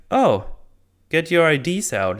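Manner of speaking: lightly voiced guard barking for IDs; mock guard demand.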